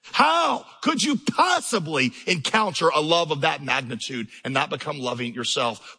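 rising shout of a preacher that drops away; preaching at full force. Real, not acted. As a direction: drive the question home from the pulpit. Preaching climax.

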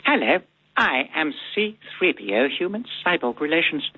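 prim, fussy robot butler voice; C-3PO voice. Shown as a demonstration. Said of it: "Did he sound like this?".

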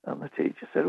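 usual speaking voice

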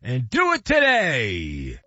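upbeat radio ad read; energetic sponsor read. Acted. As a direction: sell it like a host-read spot. Reads an ad.

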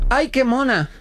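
high gushing coo over a bug; delighted girlfriend. Retold or imitated. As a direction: coo at it like a cute pet. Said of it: "ella dice".

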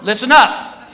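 imitated crowd announcement. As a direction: address a whole queue like a guard. Guard announces to whole security line.

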